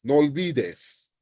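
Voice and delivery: "no olvides" slowly, as one word; words linked. Shown as a demonstration. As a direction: blend the o's in "no olvides". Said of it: "That's how you pronounce them".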